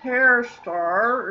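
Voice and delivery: muffled spoiler name. Acted. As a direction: say it muffled, as if through a hand. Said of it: "so I'm gonna say that in a muffled voice".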